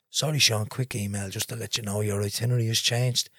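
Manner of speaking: a hint of a prim airline rep reading an email; lightly put-on posh politeness; mock posh airline voice. Retelling the airline's email in a faintly posh voice. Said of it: "in my best posh Aer Lingus voice".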